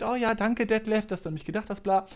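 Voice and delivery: a hint of a sweet grandmother thanking a caller; sweet old grandma. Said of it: "sie ist so voll nett".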